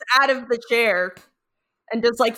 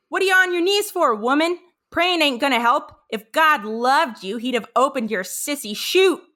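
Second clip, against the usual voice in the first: Cotton barking; 4 semitones higher, 3 dB louder than usual. Retold or imitated. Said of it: "and Cotton says".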